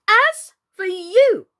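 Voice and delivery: high, loud, slow fierce threat; fierce repeat. A narrator's reading. Alice seizing the shrinking Queen, repeating fiercely. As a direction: hammer it home fiercely. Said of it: "she repeated".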